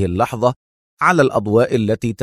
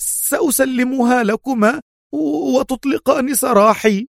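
almost crying; 13 semitones higher than usual. A narrator's reading. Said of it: "بصوت أقرب إلى البكاء".

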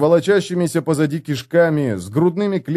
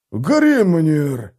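exclaiming; 4 semitones higher than usual. Acted. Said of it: "воскликнул он".

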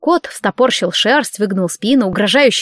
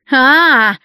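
ominous drawn-out cry, higher and louder; ominous wail; 5 semitones higher, 6 dB louder than usual. A narrator's reading. Client spots the leprechauns, ominous wail. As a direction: let an eerie cry ring over the lawn. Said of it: "зловеще разнеслось над лужайкой".

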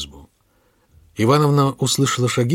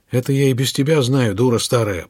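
hoarse wheeze. Acted. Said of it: "прохрипел".

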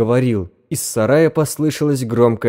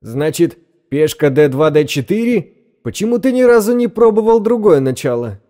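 put-on bored English accent; 6 semitones higher, 4 dB louder than usual. A narrator's reading. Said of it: "скучающий голос с английским акцентом".

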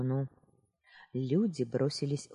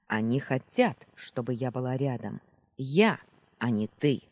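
loud, harsh villainess; barking; 4 dB louder than usual. Acted. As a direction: snap the words at her. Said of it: "неожиданно рявкнула".

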